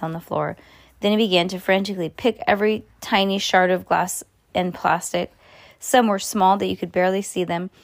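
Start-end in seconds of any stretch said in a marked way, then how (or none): none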